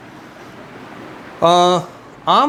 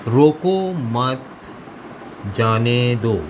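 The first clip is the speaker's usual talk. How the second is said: dictated example sentence; much slower than usual. Shown as a demonstration. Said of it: "जुमला है".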